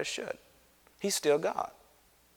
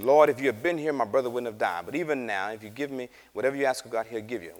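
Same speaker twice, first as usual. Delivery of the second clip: with attitude; faster than usual. Retold or imitated. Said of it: "She comes with attitude".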